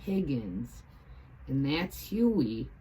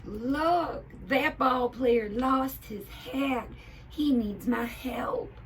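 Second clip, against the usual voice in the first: high, loud, slow cartoon hat call; eager hat shouting about the player; Hildy shouting; 10 semitones higher, 6 dB louder, slower than usual. A narrator's reading. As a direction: cry out eagerly as a little hat. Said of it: "shouted Hildy".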